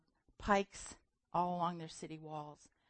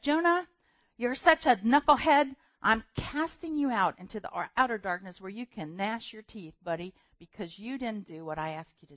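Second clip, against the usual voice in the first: scolding God; 7 dB louder than usual. Retold or imitated. God scolding Jonah, loud and exasperated. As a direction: berate him like a knucklehead. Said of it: "He could have said".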